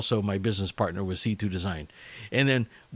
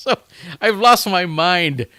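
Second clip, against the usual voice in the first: exclaiming; 7 semitones higher, 8 dB louder than usual. Real, not acted. Exclaims after his rambling pitch.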